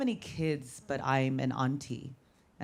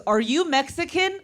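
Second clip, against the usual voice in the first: put-on much higher innocent child question; kid nephew voice; 12 semitones higher, 4 dB louder than usual. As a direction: ask it like a curious little boy. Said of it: "he goes".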